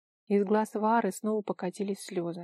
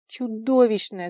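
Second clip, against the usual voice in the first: shuddering; 2 semitones higher, 7 dB louder, slower than usual. A narrator's reading. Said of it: "содрогнулась Вара".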